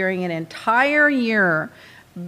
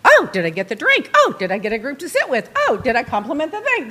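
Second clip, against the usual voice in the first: sarcastic reading; 4 semitones higher, faster than usual. Retold or imitated. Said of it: "we're reading it sarcastically".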